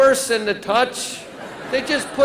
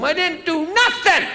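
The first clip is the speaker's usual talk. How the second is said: whiny little brother; 6 semitones higher than usual. Retold or imitated. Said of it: "He goes running off".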